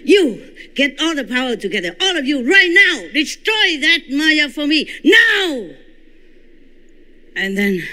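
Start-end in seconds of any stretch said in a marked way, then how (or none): 0.0-5.7 high, very loud furious shout; furious shouted order. Retold or imitated. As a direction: roar the order to destroy, building to now. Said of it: "louder and more angry than that".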